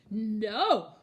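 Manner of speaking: loud, defiant big goat; firm loud no. Acted. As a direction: refuse the troll firmly.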